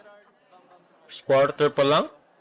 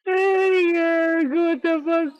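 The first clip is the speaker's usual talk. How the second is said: high, loud excited yelling; excited outburst; 13 semitones higher, 5 dB louder, much slower than usual. Real, not acted. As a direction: erupt at the play. Big play reaction, laughing.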